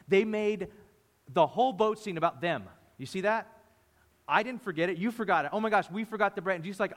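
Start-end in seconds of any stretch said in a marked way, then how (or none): 4.3-6.5 higher, hurried squabble, lightly acted; mock arguing. Disciples panicking over forgotten bread, mock arguing. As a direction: trade blame in pretend agitation. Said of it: "Even them arguing in the boat".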